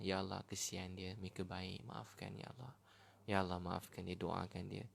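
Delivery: a quiet, tender supplication; pleading prayer. Acted. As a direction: pray gently for someone you pity. Models a gentle prayer for others.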